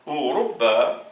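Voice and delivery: Ourouba said slowly, long ou; slow repeat. Shown as a demonstration. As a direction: repeat Ourouba carefully, holding the ou. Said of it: "ou longue voyelle".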